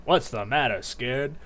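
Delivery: lightly voiced taunting wolf. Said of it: "Why haven't I ever done a wolf voice".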